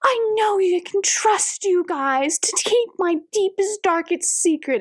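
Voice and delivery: high, sugary confiding voice; butter them up with a wide-eyed secret; mock sweet confiding. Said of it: "She's like".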